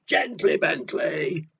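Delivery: mummy shouting. Acted. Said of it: "His mummy shouts".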